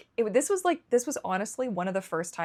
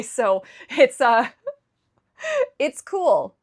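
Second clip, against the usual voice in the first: higher, laughing through it; bitter laugh; 6 semitones higher, 9 dB louder, slower than usual. Real, not acted. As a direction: laugh off the disaster, ironically. Laughs off losing all income.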